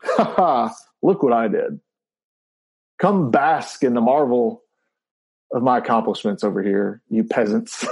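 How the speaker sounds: hammed-up gloating superhero boast; mock grand gloat at lowly peasants; megalomaniac rant. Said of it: "we're going".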